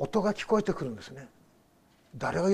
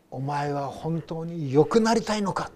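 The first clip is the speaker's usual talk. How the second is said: retold doctor's challenge, slow and growing louder; stern doctor; 4 dB louder than usual. Doctor challenging the sick seminary student, stern. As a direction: press the question like a demanding doctor. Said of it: "そのお医者さん".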